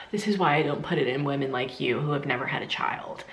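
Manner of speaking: imitating an eye-rolling doctor, understated; exasperated sigh. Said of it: "kinda sighed and rolled her eyes".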